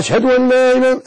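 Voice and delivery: high chanted أشهد opening on a long "aaa"; lengthened first hamza. Shown as a demonstration. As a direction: stretch the first vowel of أشهد, high and held. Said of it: "لا تقل".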